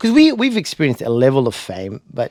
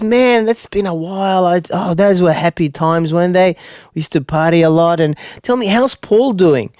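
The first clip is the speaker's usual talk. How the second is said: friendly reminiscing; 5 semitones higher, 3 dB louder than usual. Retold or imitated. Supposed old neighbour reminisces with comedian.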